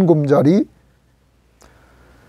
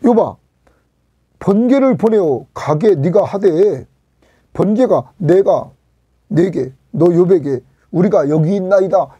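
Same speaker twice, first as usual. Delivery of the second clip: God's commanding challenge; 3 semitones higher, 3 dB louder than usual. Acted. God's challenge to Job, acted.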